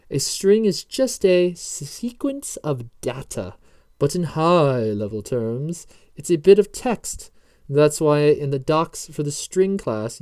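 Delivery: mock British accent drifting towards Agent Smith; deliberate, hammed-up British accent with swooping stresses; Lars, fake British accent. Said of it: "more of an Agent Smith and less of a British accent".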